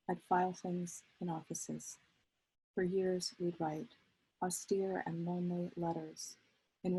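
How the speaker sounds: measured poetry recital, pausing at line breaks; poem reading. Acted. Poet reads a letter-poem to an audience, measured recital. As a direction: let each image stand in its own phrase.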